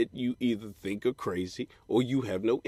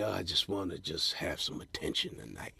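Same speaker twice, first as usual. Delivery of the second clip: lonely confession; 8 semitones lower, 12 dB quieter than usual. Retold or imitated. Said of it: "and got myself".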